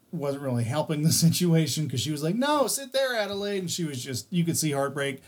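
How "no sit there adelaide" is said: lightly voiced girl. Friend voiced in story.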